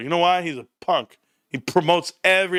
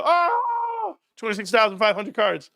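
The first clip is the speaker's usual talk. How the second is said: excited shout; 2 semitones higher than usual. Shown as a demonstration. Vlogger showing his hype at the card count, shouting. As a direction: show how hyped you get. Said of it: "I just go".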